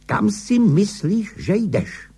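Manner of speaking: high, indignant screech without much volume; angry screech. A narrator's reading. Wife challenges husband on the staircase, high angry screech. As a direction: screech the question, pitch well up. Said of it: "zaječela".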